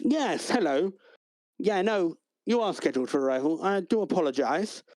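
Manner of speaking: a hint of an apologetic receptionist; desk clerk voice. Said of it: "He goes".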